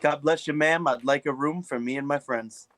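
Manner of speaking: pious blessing. Acted. Player as a holy man.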